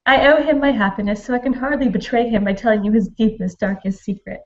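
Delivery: measured reading of a letter; reading aloud. A narrator's reading. Reader shares the letter to Charlotte, measured read-aloud voice. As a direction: read it out as a storyteller would.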